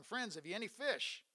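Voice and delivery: a mild call to fishermen offshore. Retold or imitated. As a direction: hail the boat from the shore. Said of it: "He called out to them".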